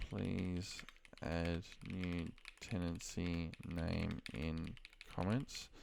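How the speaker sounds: slowly spelled out as typed; dictating each word slowly while typing; slow dictation. Shown as a demonstration. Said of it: "so I'm gonna say".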